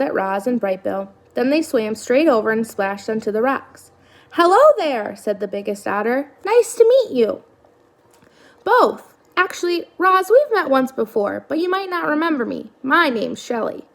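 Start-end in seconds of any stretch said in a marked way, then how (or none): 4.3-7.4 otter voice. Acted. Otter voice, high. 8.6-13.9 otter voice. Acted. Otter Shelley voice.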